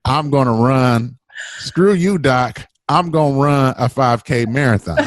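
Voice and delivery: laughing mock outburst, pitch shooting up on screw you; mock defiant yell. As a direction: throw it back at the doc, cracking up. Retold defiant outburst at doctor.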